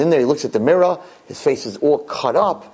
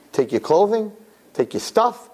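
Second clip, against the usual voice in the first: mock threat; 7 semitones higher than usual. Wife threatens drunk husband.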